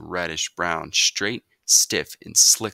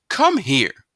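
loud, higher barked command; stern order; 11 semitones higher, 9 dB louder than usual. A narrator's reading. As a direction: order him over, no arguing. Mother orders son.

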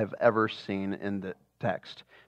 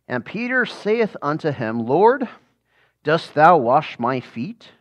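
scripture reading; 2 semitones higher, 3 dB louder than usual. Acted. Reads John 13 aloud in class.

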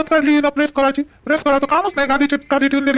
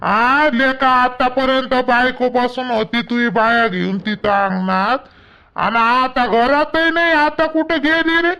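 put-on slow old father; 3 semitones lower, slower than usual. Elderly father complains about daughter-in-law.

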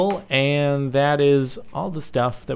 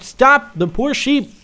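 high, urgent plea; alarmed cry; 8 semitones higher, 5 dB louder than usual. Real, not acted. Player crying out for the poor sheep, alarmed.

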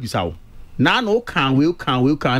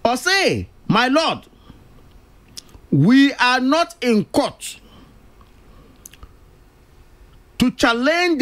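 quoting a court address; 2 semitones higher, slower than usual. Retold or imitated. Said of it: "in the words of".

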